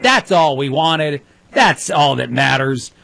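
slow, mocking sarcasm; sarcastic. Real, not acted. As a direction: drag it out with heavy irony. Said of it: "I'm being sarcastic as I say that".

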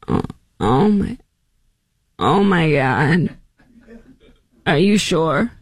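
mock breathy shock, drawn out slowly; a hint of a gasping Kamala. Host mimics Kamala reacting to Joe's news. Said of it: "do my Kamala voice".

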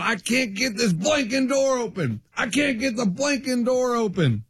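retold yelling. Radio host retelling a passenger stuck outside the bathroom, mock yelling. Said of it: "starts yelling".

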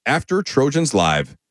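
big hammy radio promo voice; over-the-top promo read. Shown as a demonstration. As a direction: sell it like a booming station liner. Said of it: "Felt over the top".

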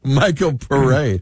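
"Paré" said "puh-RAY"; French pronunciation. Shown as a demonstration. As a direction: end "Paré" on a stressed "ray", French-style. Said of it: "oh, he's French".

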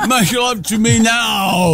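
high, slow, demanding mock Cockney; awful Cockney. Co-host echoing the joke come-on, exaggerated Cockney. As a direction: insist in a hammed-up Cockney accent. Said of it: "You got the awful Cockney".

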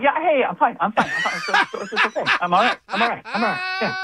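fidget through it like someone scratching their neck; laughing imitation of a nervous guy insisting he's fine. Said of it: "kinda scratching their neck nervously, going".

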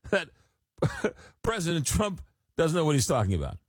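"that President Trump" pecah tawa tinggi; laughing in disbelief at the text. Real, not acted. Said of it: "is now telling me".

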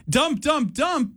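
high sung beep sounds; censor-beep imitation. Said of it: "having the knowledge to say".

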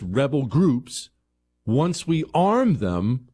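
slow, emphatic mock confidence; sarcastic endorsement. Host pretending arming rebels is brilliant, emphatic sarcasm. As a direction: spell out a bad plan as if brilliant.

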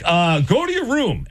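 high, slow, helpless mother; flustered mom. Retold or imitated. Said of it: "And then you're like".

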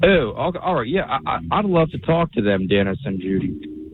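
odd Southern-tinged accent; Southern-sounding accent. Real, not acted. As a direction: talk in an unconvincing Southern accent. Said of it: "in a very bad Southern accent".

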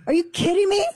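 high, incredulous outcry; can't believe what you're hearing; exasperated disbelief. Real, not acted. Exasperated outburst.

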